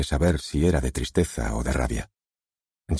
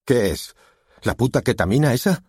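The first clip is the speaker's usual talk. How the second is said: angry father; 8 semitones higher, 4 dB louder than usual. A narrator's reading. Angry father finds drugs.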